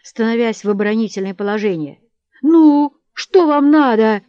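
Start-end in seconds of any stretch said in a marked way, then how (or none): 2.4-4.2 loud, high, drawn-out challenge; yelled demand, pitched up; defensive shout. A narrator's reading. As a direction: shout back at the mob. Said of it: "кричал Ермолай".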